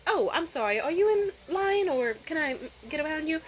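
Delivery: lilting, careful polite request; polite asking. Retold or imitated. Customer asking man blocking the line, polite. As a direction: ask carefully, voice lifting.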